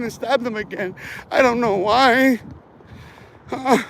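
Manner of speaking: a hint of a breathless frightened storyteller; mocking scared gossip. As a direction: parody the scared voices he hears, lightly. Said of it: "That's how they sound, dog".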